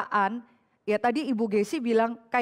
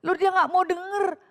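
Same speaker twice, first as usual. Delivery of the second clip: mock exasperated aside; 8 semitones higher than usual. Voicing someone ignoring warning.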